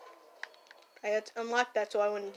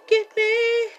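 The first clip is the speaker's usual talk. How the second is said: higher, louder complaint; annoyed raised voice; 7 semitones higher, 4 dB louder than usual. Real, not acted. Annoyed at a teammate ruining his zombie defences. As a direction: scold the teammate blocking the wall.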